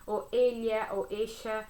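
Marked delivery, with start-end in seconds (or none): 0.3-0.9 "elia" with an l-plus-y glide; "elia", a liquid l sliding into ya; ella as "elia". Shown as a demonstration. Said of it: "a gente pode pronunciar". 1.1-1.7 "echa" with a hushing sh-like sound; "echa", the double l turned into sh; ella as "echa". Shown as a demonstration. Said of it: "a gente pode pronunciar".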